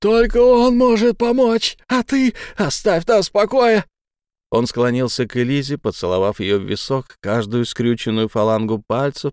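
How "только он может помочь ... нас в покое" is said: high, loud desperate demand; much higher loud frantic yell; broken shouting. Acted. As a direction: drive him away.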